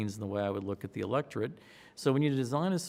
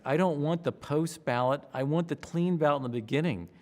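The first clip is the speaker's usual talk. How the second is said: raised, insistent correction; impatient insistence; 4 semitones higher, 4 dB louder than usual. Retold or imitated. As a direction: push back a bit louder. Impatient demand for clean ballot.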